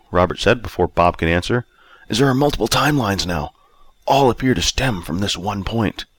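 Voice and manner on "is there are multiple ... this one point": put-on 1 measured older self. A narrator's reading. Robert explains timelines, older self.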